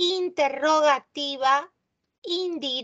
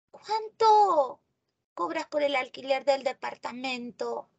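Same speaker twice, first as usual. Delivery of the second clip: questioning. Shown as a demonstration. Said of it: "Esta es una oración interrogativa".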